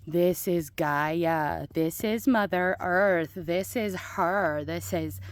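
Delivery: slow, drawn-out gushing over her garden; gushing to herself. Acted. Admiring the finished garden bed, slow and reverent. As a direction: talk to herself like a proud girlfriend. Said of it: "I'm like".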